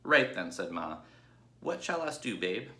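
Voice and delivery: Ma conceding to Babe, grudging; grudging old ewe. Acted. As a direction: give in with a grumble. Ma's voice.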